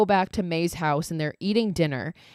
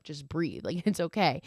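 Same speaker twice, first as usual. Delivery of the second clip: softly reassuring, lightly acted; quiet, mild retold comfort; gentle reassurance; 5 dB quieter than usual. Retelling a man calming nervous partner.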